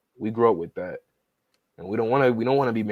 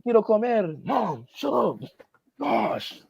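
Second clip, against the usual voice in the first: mocking voices; 10 semitones higher, slower than usual. Mocking spoiled son and mom.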